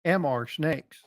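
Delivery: light Southern drawl on "M R Snakes", said like "Mister Snakes"; Southern accent. Shown as a demonstration. Streamer showing chat how to say it, Southern drawl. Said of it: "you have to kinda talk with the Southern accent".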